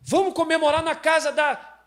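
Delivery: high, loud party suggestion; high, loud friend proposing a party; friend suggesting. Retold or imitated. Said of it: "Vai ter gente assim".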